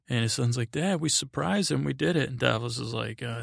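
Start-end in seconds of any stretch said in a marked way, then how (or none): 0.7-2.3 higher-pitched mock boyish triumph; excited son. Son to his dad after a surprise attack, mock excited. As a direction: imitate a son thrilled with the plan.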